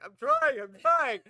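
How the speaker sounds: loud, high panicked yelling; frantic mock yell. Player answering orders to flee, frantic high yell. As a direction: yell it in re-enacted desperation. Retells frantic reply while fleeing.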